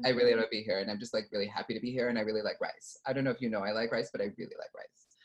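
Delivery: fast, rambling character chatter; pop-star impression. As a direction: babble earnestly in a put-on pop-star voice. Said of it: "oh, Brittany".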